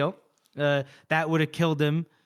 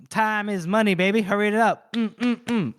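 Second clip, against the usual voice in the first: higher, hustling hurry-up; playful mock impatience, pitched up; pushy businessman act; 6 semitones higher, 4 dB louder than usual. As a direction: imitate an impatient big shot. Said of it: "he does the thing where he's like".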